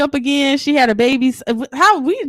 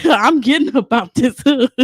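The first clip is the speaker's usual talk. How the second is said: "I'm getting up out this hood" repeated through a laugh. Real, not acted. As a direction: laugh at your own vow as you say it.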